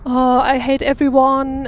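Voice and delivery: lightly voiced gloomy bread mascot; a mild, monotone grumble; negative character. Describing a negative German bread character, mildly gloomy. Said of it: "And he is very, like".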